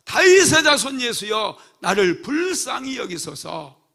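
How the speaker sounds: loud high plea, slowing on 불쌍히. Acted. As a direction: raise the voice over the scolding crowd. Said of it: "더욱 소리를 높여서".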